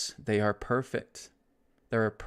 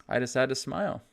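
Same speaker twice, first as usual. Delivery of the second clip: cheerful quote; 3 semitones higher, faster than usual. Retold or imitated. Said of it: "you'll say".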